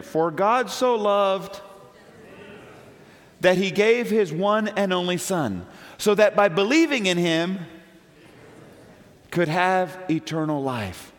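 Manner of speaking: "For God so loved" drawn out slowly, word by word; slow personal reading. Shown as a demonstration. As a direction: read it slowly as if it's written to you. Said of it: "and you put your name in there".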